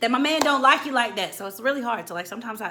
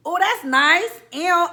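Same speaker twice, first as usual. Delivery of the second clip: snide mock whisper; 10 semitones higher, 10 dB louder, much slower than usual. Mocking the friend in the doorway.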